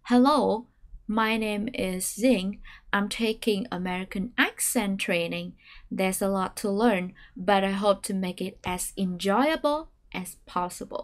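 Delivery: slow read stepping down, with "accent" stressed; staircase intonation. Shown as a demonstration. Teacher reads a long model sentence slowly. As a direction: stress "accent", step down on the rest. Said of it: "thực hành lại một lần nữa".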